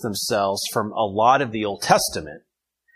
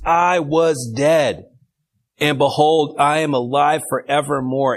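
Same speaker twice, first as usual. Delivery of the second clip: proclaiming; 5 semitones higher, 5 dB louder than usual. Acted. Teacher reading Jesus's proclamation.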